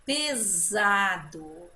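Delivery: "Pesado" slow, with the S buzzed as Z. Shown as a demonstration. Teacher showing the changed sound, Z in "Pesado". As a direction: stretch "Pesado" with a voiced Z sound. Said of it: "mudou o som do S".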